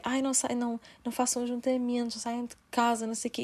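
lightly mocked preachy influencer tone; hint of a sanctimonious lecture; mocking Diogo Faro. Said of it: "fez-me lembrar o Diogo Faro".

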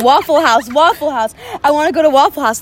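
mild mock scream, insistent; retold screaming. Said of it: "I remember just screaming".

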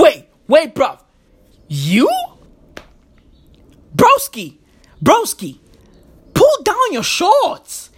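taunting mock thug voice; mocking Russian players. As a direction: sneer it like a bully taunting a victim. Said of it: "they walked on that pitch going".

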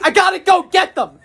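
put-on high, laughing old lady voice; a hammed-up high grandma voice; mock grandma. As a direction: squeal it like a stubborn grandma. Imitating grandma again.

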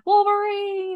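high, drawn-out movie call; Red Dawn battle cry. Retold or imitated. Quoting Red Dawn to the co-host, high rallying cry. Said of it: "the Red Dawn".

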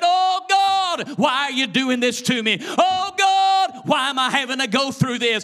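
high, sustained cries to heaven, then pleading questions; acted anguished holler. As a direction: holler out each appeal like a preacher acting agony. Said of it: "He screamed. He hollered".

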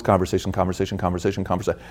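fading repetition. Real, not acted. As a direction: let it fade away. Describing constant inner talk.

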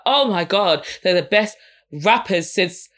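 exaggerated fangirl excitement rising to a high, loud squeal; mock gushing fan. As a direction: overhype it like a starstruck fan. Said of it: "let me not do that again".

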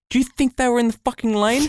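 high, incredulous rhetorical question; exasperated mock question; indignant rant. Real, not acted. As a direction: rise up in disbelief at the cyclists.

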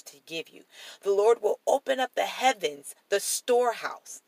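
lifted, declarative Bible reading; measured reading aloud with stressed key words; scripture reading. Acted. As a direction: proclaim the promises from the page.

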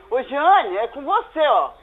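loud call to someone nearby. Real, not acted. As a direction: call her over to the phone. Woman calls Jeane to phone.

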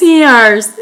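"Sears" with an ee-ah vowel; brand said properly. Shown as a demonstration. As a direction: say "Sears" as English "see-ars", drawn out. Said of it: "las marcas bien".

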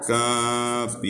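Capitán drawn out slowly as ca-pi-tán, low and soft; slow, chanted dictation of Capitán; syllable by syllable. Shown as a demonstration. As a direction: sound out Capitán in long, even syllables. Teacher sounds out the word.

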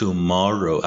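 "Tomorrow" with the middle syllable stressed; stress on second syllable. Shown as a demonstration. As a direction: model "Tomorrow", leaning on "mor". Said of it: "تاکید روی سیلاب دوم لغت هستش". («Tomorrow» با تأکید روی سیلاب دوم)

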